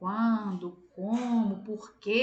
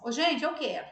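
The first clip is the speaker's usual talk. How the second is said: calling out to the group, a bit louder; demo incomplete request; 4 semitones higher, 4 dB louder than usual. Shown as a demonstration. Teacher demos an unfinished sentence to the class, calling out. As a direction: announce a want with nothing after it. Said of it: "Se eu falar assim com vocês".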